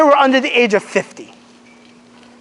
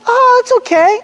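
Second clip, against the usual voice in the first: dismissive brush-off; 12 semitones higher than usual. Retold or imitated. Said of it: "You'd be like".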